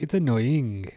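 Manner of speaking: imitating own Welsh-sounding slip; mock Welsh sing-song; Welsh accent. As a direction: lilt it lightly like a Welsh speaker. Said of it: "Why did that sound so Welsh? I was like".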